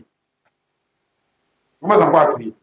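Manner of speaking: drawn-out whining imitation, slow; slow, mocking lament; slow mock wail. Shown as a demonstration. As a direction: mimic a believer groaning in pain.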